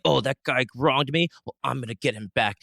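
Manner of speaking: a touch of wounded indignation; mock vow to get even; mild acted anger. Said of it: "that anger is like".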